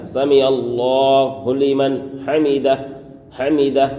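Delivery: سمع اللہ لمن حمدہ with a full stop on حمدہ; slow سمع اللہ لمن حمدہ ending with a pause on حمدہ; stop on hamidah. Shown as a demonstration. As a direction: come to rest on حمدہ. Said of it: "یہاں پر رک جانا ہے".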